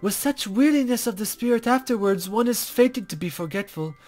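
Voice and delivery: a hint of a coy, teasing sage; lightly voiced mysterious guide.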